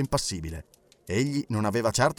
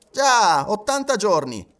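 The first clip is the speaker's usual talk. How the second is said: louder, high-pitched outburst; excited exclamation; 8 semitones higher, 6 dB louder than usual. A narrator's reading. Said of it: "esclamò Andrew Stewart". (esclamazione eccitata)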